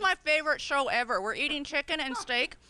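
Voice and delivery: talking through a mouthful of food; mouth full. Real, not acted. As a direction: speak round a bite of food. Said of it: "I'm talking with my mouth full".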